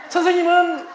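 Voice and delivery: ordinary talk, nothing marked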